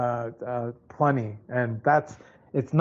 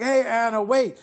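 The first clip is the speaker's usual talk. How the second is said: higher, a bit louder call to wait; 4 semitones higher, 4 dB louder than usual. Retold or imitated. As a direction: shout ahead to stop Anna. Calling out to Anna.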